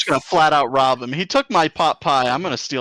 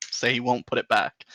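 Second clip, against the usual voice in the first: normal talking voice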